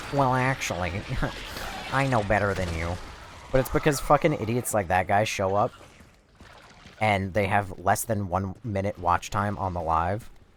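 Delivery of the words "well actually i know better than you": condescending, smug, superior know-it-all tone. Showing how the speaker tries not to sound to chat: smug know-it-all voice. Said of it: "prevent myself from sounding like".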